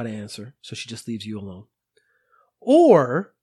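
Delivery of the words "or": sudden whispered "Or". Real, not acted. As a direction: drop to a breathy whisper.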